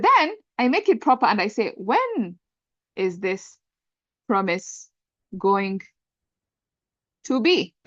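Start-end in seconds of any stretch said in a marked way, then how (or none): 1.8-7.7 halting, spaced-out words with long pauses. Shown as a demonstration. Teacher writing out the proper English sentence, word by word. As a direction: say it one word at a time, pausing between.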